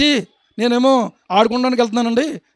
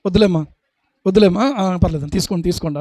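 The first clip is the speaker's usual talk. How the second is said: a light imitation of polite declining, softer; polite refusal; 3 semitones lower, 3 dB quieter, faster than usual. Preacher mimicking someone refusing food from a disliked person, softly. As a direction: mimic a guest politely saying no thanks. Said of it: "అని అన్నా కూడా".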